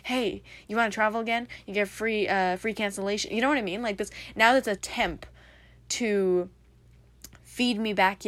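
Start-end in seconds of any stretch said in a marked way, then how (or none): 0.0-3.3 ad voice. Retold or imitated. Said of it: "advertisements that say".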